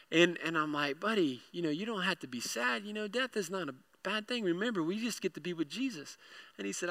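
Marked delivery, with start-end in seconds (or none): 1.0-6.2 soft, gentle reassurance; consoling. Retold or imitated. Dad to tearing-up son, softly consoling. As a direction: comfort a tearful little boy softly. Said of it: "he's tearing up".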